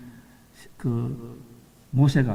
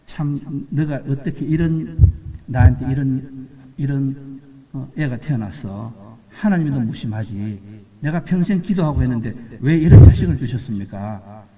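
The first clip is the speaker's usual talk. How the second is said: lightly voiced old woman asking God why, rising to a louder plea; imagined complaint; 2 semitones lower, 4 dB louder than usual. Preacher voicing the grandmother's imagined complaint to God, mild hurt lament. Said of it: "이렇게 불평할 수도 있었잖아요".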